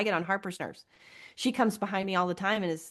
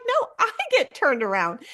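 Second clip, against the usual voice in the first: higher, louder mock complaint; quoting sister; 7 semitones higher, 6 dB louder than usual. Retelling her sister's excuse, high mock whine. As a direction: put on a whiny excuse. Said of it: "It's like".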